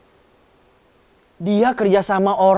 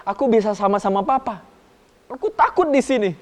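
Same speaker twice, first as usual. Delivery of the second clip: pleading son; 2 semitones higher, 4 dB louder, faster than usual. Acted. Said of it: "Dia bilang".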